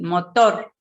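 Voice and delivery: "motor" as mo-TOR, TOR lifted; stress on last syllable. Shown as a demonstration. Teacher asking the class to pronounce it, stress on last syllable. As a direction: push the final "tor" of "motor". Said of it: "A ver, pronuncien".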